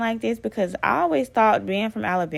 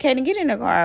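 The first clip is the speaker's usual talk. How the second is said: put-on higher, louder call to the child; 7 semitones higher, 4 dB louder, faster than usual. Mother calling her son into the car, raised voice. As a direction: hurry the kid into the car.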